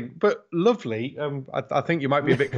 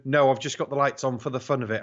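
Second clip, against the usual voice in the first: sarcastic reply. Retold or imitated. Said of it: "get the questions asked in the pub".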